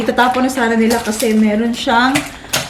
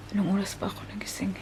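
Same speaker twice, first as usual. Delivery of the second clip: soft tired whisper; 3 semitones lower, 16 dB quieter, much faster than usual. Real, not acted. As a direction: breathe it out unvoiced. Tired late-night aside.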